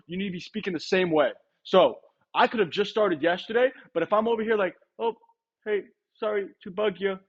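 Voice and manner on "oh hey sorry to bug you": hesitant, apologetic door greeting; unconfident rep. Shown as a demonstration. Rep greets a homeowner, timid and apologetic. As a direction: sound sorry to be there. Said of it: "I'm not confident".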